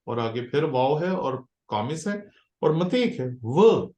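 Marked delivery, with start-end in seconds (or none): 3.4-3.9 व cut off as a lone, loud syllable; emphatic व followed by a pause; short break. Shown as a demonstration. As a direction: say व alone and stop for a brief break. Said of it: "यानी कि break लानी है".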